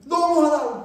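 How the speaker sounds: put-on high, tearful child's wail with a laugh; imitating a crying child. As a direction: mimic the angry sobbing child, half-laughing. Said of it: "막 눈물을 뚝뚝 흘리는".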